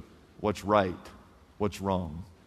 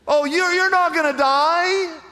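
sly Satan; 13 semitones higher, 5 dB louder than usual. Pretend. Satan voiced, mocking God's warning.

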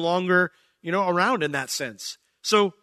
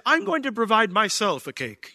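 odd phrasing; 6 semitones higher than usual. Retold or imitated. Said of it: "I would never say it like that".

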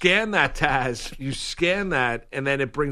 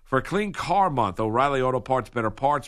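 even, practised sponsor read; radio ad read; 2 semitones lower than usual. Acted. Reads sponsor advertisement.

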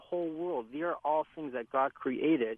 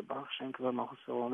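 soft, quick murmured Hebrew; whisper-like prayer; 7 dB quieter, faster than usual. Shown as a demonstration. Rabbi showing a worshipper close to Hashem, praying softly. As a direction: recite it quickly under your breath, still voiced. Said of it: "almost like you're whispering to Hashem".

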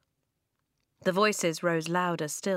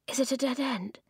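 moaning; 6 semitones higher than usual. A narrator's reading. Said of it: "Blue moaned".

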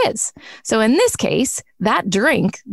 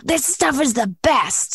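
lightly voiced enthusiastic friend; a hint of a gushing friend; friend's voice; 4 semitones higher than usual. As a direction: quote the friend's delight. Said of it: "he was like".

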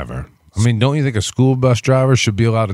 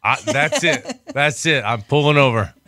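fed-up bus driver; 4 semitones higher than usual. Pretend. Driver losing patience.

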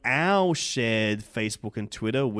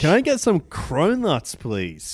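pleading excitedly; 6 semitones higher, 4 dB louder than usual. Pretend. Begging Hollywood for cronuts.

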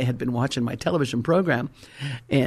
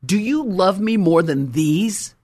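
pressing harder; 2 semitones higher, 4 dB louder than usual. Retold or imitated. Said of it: "Jesus tells him again".

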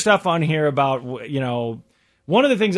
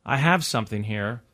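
humble servant; 4 semitones lower than usual. Shown as a demonstration. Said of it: "This is an example".

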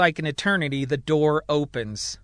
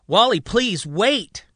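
pleading; 7 semitones higher, 6 dB louder, slower than usual. A narrator's reading. Pleading as Walter stands to leave.

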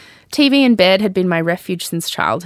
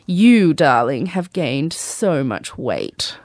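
mock posh Australian accent; 3 semitones lower, much slower than usual. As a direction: purr it in a faux-grand Australian accent. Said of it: "in an accent that fell".

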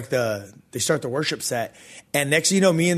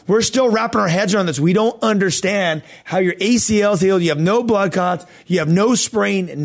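higher, emphatic imitation of amazement; baffled doctor; 5 semitones higher, 4 dB louder than usual. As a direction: act out a doctor who can't believe it. Retold doctor baffled by the healing.

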